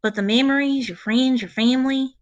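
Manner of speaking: touched, folksy ranger, lightly voiced; Magpie the ranger. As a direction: talk kindly in a folksy in-character voice.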